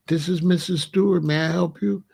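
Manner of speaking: lightly voiced government-office receptionist; a hint of mother's formal work voice; professional phone voice. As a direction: answer the office phone politely and properly. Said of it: "with her government voice".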